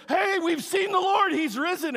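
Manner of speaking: excited announcement. Retold or imitated. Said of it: "they said".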